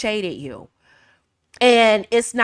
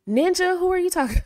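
put-on old self snapping back; 5 semitones higher, 4 dB louder than usual. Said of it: "the old her ... would have been".

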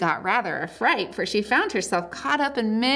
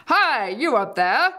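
roar; 3 semitones higher, 4 dB louder than usual. A narrator's reading. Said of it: "he roared".

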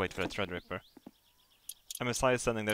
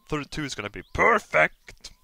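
louder, bright anticipation; excited; 5 semitones higher, 9 dB louder than usual. Real, not acted. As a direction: let the excitement burst out. Excited about new rig.

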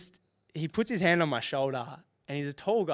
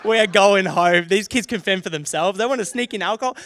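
loud, high exasperated outburst; cracking it; 6 semitones higher, 10 dB louder than usual. Retold or imitated. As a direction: declare it in fed-up retold fury. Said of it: "Uh, I cracked it".

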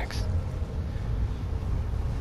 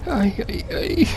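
whisper; 10 semitones higher, 4 dB quieter than usual. Real, not acted. Hiding from monster, whispering.

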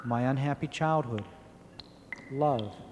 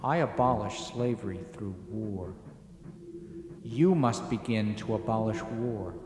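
quiet authority. Acted. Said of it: "He spoke softly with quiet authority".

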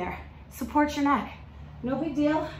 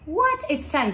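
mock surprise; 5 semitones higher, 4 dB louder than usual.

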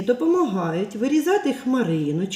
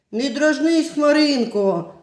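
hurt little bunny, louder, stretching the name slowly; offended bunny; 4 semitones higher, 5 dB louder, slower than usual. Acted. Bunny upset with the teasing cloud, offended plea. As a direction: scold the cloud like a wounded bunny.

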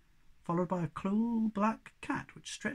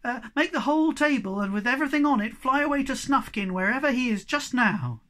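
much higher, louder eager request; excited plea; 7 semitones higher, 6 dB louder than usual. Acted. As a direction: beg eagerly, full of hope. Moomin Troll eagerly wishing.

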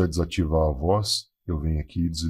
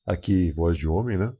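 deep male voice effect. Shown as a demonstration. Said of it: "ela tá bem grossa aí".

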